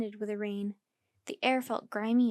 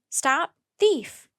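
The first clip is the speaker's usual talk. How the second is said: crowd yelling, loud; 4 semitones higher, 8 dB louder than usual. A narrator's reading. Crowd yelling after Jack and Annie. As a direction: call it out with the mob. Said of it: "Everyone was yelling".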